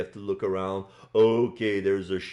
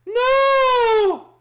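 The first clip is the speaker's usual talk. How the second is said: panicked high scream; 9 dB louder than usual. Acted. Character panics at bomb.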